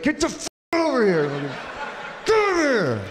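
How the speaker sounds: yank him back with a shout; mock yell at kid. Yelling at kid on leash.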